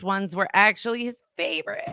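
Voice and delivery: crying. Real, not acted. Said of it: "she's crying".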